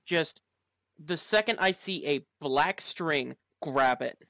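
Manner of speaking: loud, urgent commands; urgent shout. Acted. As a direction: bark it out in a rush. Player urgently shouting orders.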